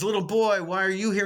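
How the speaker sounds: put-on calling out to the boy; preacher voice. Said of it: "And he says".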